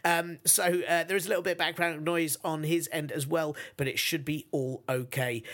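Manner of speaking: muffled recording through headphones. Real, not acted. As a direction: sounds like talking through a headphone mic. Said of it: "So I sound very muffled".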